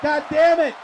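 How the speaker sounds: a restrained first try at an angry manager's swearing; Jim Cornette. Acted. Commentator quoting the manager at ringside, mildly exasperated. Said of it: "he's not saying it like that".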